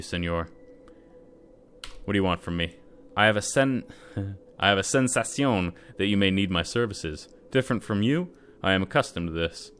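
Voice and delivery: put-on lightly accented Cuban mercenary, loud and confident; Spanish accent. Gamer voicing Eduardo's pitch, light Spanish accent. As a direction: play a smooth, boastful Cuban bodyguard. Voices Eduardo for many lines.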